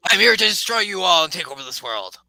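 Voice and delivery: high, loud hammed-up villain; villain wizard threat. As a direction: declare world conquest like a theatrical wizard. Game master voices villain's threat.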